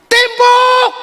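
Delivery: sharp high yelled order to throw; commanding shout. Acted. Crowd leader yells at boys to stone the Prophet, shouting.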